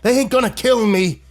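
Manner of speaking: put-on old man answering viciously. A narrator's reading. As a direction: snarl it back. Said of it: "he responded in a vicious tone".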